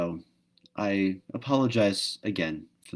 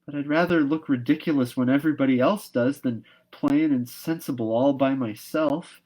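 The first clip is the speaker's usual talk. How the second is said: mournful; 6 semitones higher, 5 dB louder than usual. Acted. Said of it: "persisted Anne mournfully".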